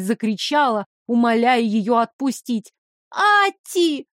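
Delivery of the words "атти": намного выше, отчаянно; позвать в ужасе; отчаянный зов. Acted. Пленница зовёт на помощь. (пленница в ужасе зовёт Атти)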